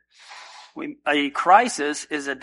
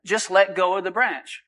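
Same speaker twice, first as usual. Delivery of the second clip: voice of the Lord; 4 semitones higher than usual. Acted. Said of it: "He says".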